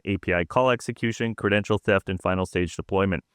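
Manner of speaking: steady, even read of a technical news report; scripted report read. Acted. Co-host reading a malware report to listeners, scripted read. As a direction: read the prepared script out evenly. Goes back to the prepared report.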